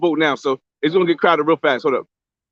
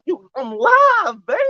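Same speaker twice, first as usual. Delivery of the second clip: playful hype; 8 semitones higher, much slower than usual. Real, not acted. Vlogger answering a viewer's question, drawn out in playful hype. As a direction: stretch it out high, showing off to the chat. Greeting viewer, hyping being live.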